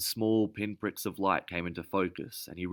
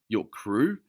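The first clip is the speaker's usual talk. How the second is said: sneering question, a touch louder; contemptuous snarl; 4 semitones higher, 5 dB louder than usual. Acted. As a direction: throw her word back with contempt. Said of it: "Elvin snarled".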